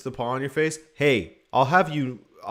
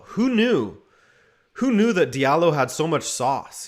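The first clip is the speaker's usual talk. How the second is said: amazed; 2 semitones higher, 3 dB louder than usual. Real, not acted. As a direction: marvel at Who knew. Amazed at defender.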